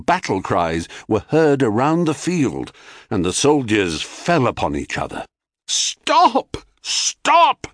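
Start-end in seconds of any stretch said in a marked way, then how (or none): 5.7-7.7 high frantic shouted Stop; yelled. Acted. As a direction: yell it like a panicked parent. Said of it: "yelled Cadmus".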